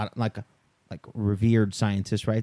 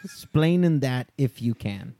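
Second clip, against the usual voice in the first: put-on Cuban accent; slower than usual. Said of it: "the Cuban accent that well".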